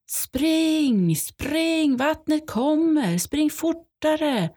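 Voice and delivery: dad yelling at them to run, a high, urgent retold shout. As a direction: echo his panicked yell to run, without full volume. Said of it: "Han skriker".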